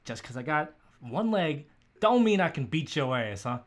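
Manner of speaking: lightly done New York tough talk; New York accent. Acted. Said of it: "gotta do a New York accent".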